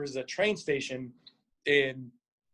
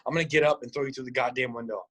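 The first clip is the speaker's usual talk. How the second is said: retold threat, brisk toward the end; understated mock menace; threatening; 3 semitones lower than usual. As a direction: imitate a fed-up sleeper's warning. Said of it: "threatening me. He's saying".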